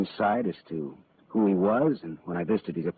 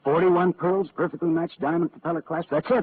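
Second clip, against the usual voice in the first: higher and louder, eager as he spots it; excited recognition; 9 semitones higher, 3 dB louder than usual. Acted. Marlowe identifying the necklace for the lieutenant, excited recognition. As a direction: pounce on it, that's the necklace.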